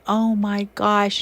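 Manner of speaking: a slow, stunned oh my gosh; retold sadness. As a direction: let the news sink in, slowly. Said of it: "And I had kind of sadness".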